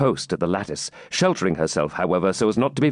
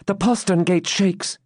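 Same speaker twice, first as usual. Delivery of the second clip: high, slower suspense; excited report; 10 semitones higher than usual. Acted. Maiden watches the gate, tensely excited. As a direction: announce it high, drawing it out.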